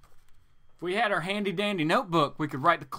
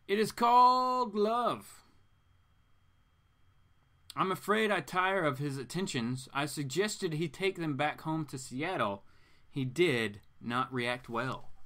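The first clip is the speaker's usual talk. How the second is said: seductive villainess. Acted. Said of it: "Ivy reads her line".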